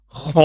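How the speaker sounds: خا said thick and heavy from the throat; heavy letter. Shown as a demonstration. Teacher showing pupils the heavy sound of خا. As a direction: give خا a full, heavy sound. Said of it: "موٹا کر کے".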